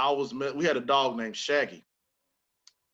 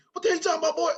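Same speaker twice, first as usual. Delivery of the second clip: high, loud mock angry dad; scolding father; 5 dB louder, much faster than usual. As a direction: snap back as an exasperated dad.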